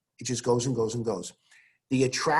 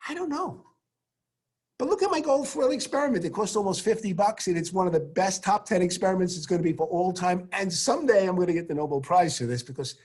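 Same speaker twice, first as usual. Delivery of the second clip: lightly voiced Rutherford; 5 semitones higher than usual. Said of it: "And he said".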